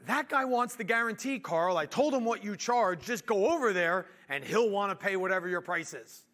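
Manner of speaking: misheard request. Retold or imitated. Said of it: "what my nineteen-year-old head heard".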